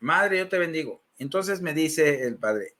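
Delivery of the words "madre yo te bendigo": subdued echo of the blessing; understated follower's response; obedient repetition. Retold or imitated. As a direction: repeat it back dutifully, lightly acted. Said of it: "Y yo digo".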